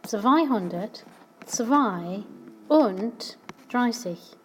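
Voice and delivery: slow, each part of Zweihundertzweiunddreißig spelled out; Zweihundertzweiunddreißig said slowly, syllable by syllable; slow careful German. Shown as a demonstration. Teacher repeating the German number slowly for learners. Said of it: "is actually going to be".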